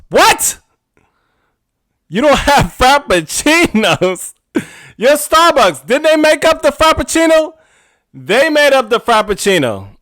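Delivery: high, loud incredulous outburst; outraged disbelief. Acted. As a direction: squawk it, stunned and indignant, with a laugh breaking in. Outraged reaction to no Frappuccinos.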